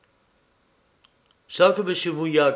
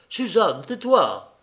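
sharp hush; 6 semitones higher, 4 dB louder than usual. A narrator's reading. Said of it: "s'écria monsieur Mouillac".

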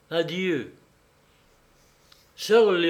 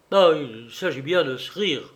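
en colère; 3 dB louder than usual. Acted. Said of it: "s'écria Lionel en colère".

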